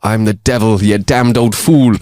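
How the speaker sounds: put-on slowing down in a rough Irish accent; devil's retort, lightly acted in Irish. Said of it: "the terrible Irish accent that I put on".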